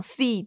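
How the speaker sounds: シー said with an English TH; TH sound. Shown as a demonstration. Teacher showing her student the English TH, TH sound in シー. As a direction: put the tongue-tip TH into シー. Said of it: "このティーエイチのシーっていう発音".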